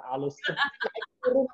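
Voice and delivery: high, slow lilting sweep; mock the gentle rise and fall; soft singsong. Shown as a demonstration. Showing the soft up-and-down tone Germans lack, slow and high. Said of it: "nggak bisa pelan".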